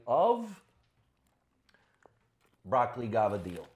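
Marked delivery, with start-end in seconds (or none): 2.7-3.7 "gavadil" with a G start and clipped final vowel, gah-vah-DEEL; family dialect pronunciation. Shown as a demonstration. Recalling his mother's special plate, "gavadil" in family dialect. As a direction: say "gavadil" the Italian-American family way, ending on deel. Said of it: "that's the way we said it".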